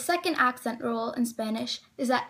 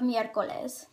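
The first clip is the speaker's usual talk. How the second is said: "miércoles" stressed on MIÉR, the first syllable; 4 dB quieter than usual. Shown as a demonstration. Teacher showing the correct word, "miércoles" stressed on first syllable. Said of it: "The oral stress is on the E".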